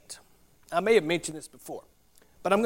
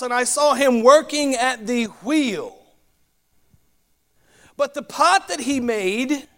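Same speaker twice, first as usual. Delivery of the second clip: measured, projected Bible reading, often higher than plain talk; Scripture reading; 4 semitones higher than usual. Acted. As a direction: read the passage aloud to a congregation. Everyone ready?.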